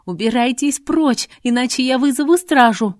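brave but shaking; voice breaking. A narrator's reading. Frightened daughter orders the thugs out, voice breaking. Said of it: "срывающимся голосом ответила".

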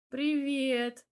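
breathed-out greeting. A narrator's reading. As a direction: let the word out on a fond breath. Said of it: "выдохнул я".

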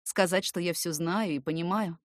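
ordinary delivery, nothing marked

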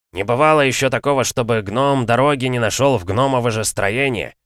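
loud, high, worked-up dwarf; fired-up, proud dwarf; heated dwarf boast. A narrator's reading. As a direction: insist with growing heat. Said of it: "Распалялся тем временем Брабер".

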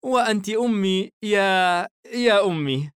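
put-on high girl's voice with a smile; smiling young girl. A narrator's reading. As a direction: play a fond daughter teasing gently. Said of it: "الفتاة باسمة".

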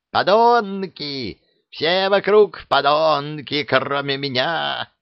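a high, slow mock wail; wailing old woman. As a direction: ham up a cursing crone. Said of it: "заголосила правая".

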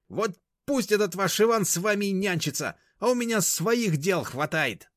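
high, loud, slowing at the end; indignant high-pitched farewell; huffy parting shot. A narrator's reading. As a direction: storm out with a last word. Mashka storming out.

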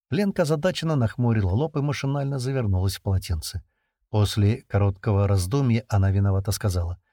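ordinary delivery, nothing marked

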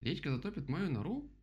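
high horrified question, ending loud; horrified rabbit. A narrator's reading. Rabbit fears for his burrow, horrified. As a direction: ask in high alarm, punching the end. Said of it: "Кролик в ужасе уставился".

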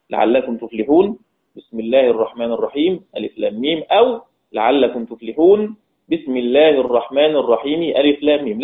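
chanted recitation of both allowed ways; Quran recitation. Shown as a demonstration. Teacher reciting the two allowed ways for students. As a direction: recite each way as in tarteel. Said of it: "بالوجهين الآخرين".

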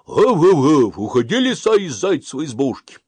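put-on loud, high barking old dog. Old dog on the porch barks at the fox, loud. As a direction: bark and order the fox out. Пёс лает на лису.

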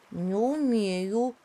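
slow, mild sighing admission; a touch of gloom, slowed down; the little elephant sighs that he can't climb. Acted. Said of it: "вздохнул слонёнок".

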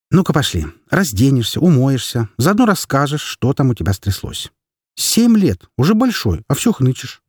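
mother telling her son to undress and stop whining; brisk mother. Acted. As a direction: take charge and chide him.

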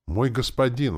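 high, slightly strained zombie servant; lightly wheezed exclamation; wheezing. A narrator's reading. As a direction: address the master in a husky rasp. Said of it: "засипел Валера".

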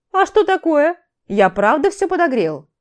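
loud, high-pitched indignant objection; indignant protest. A narrator's reading. Тарий objects to the grumbling mage, indignant and loud. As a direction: protest loudly, voice jumping up. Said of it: "Возмущённо возразил Тарий, говоря достаточно громко".

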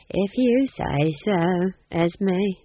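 slow, submissive, a hint of meekness; meekly. Nanny yielding to Granny, meek. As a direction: give in humbly. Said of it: "said Nanny meekly".

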